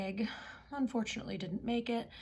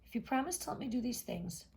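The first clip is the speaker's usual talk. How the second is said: higher frog voice, eager; a hint of a pleading frog; 4 semitones higher than usual. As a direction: frog listing his wishes to the princess. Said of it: "he said".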